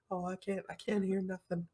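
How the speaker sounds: low, hushed imitation of the doctor; mock whispering doctor. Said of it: "he's basically whispering to her".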